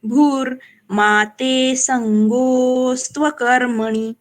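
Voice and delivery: slow line with a quick short नी in कर्मणि. Shown as a demonstration. Teacher shows the short नी at the end. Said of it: "नी ह्रस्व है".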